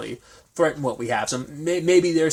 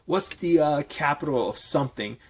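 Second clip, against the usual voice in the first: a high, mock-airy voice, lightly acted; Bette's snippy quip; 3 semitones higher than usual. Bette needling a man she's holding at gunpoint, in a high mock-airy voice. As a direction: toss off the question with disdain. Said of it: "She's like".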